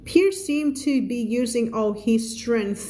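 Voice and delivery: slow, careful story read for learners. A narrator's reading. Teacher reading a story to her class, slow and careful. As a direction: read the sentence slowly for students. Reads story aloud slowly.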